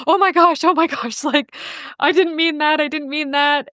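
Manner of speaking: flustered apology. Retold or imitated. Retold flustered apology after causing sobbing.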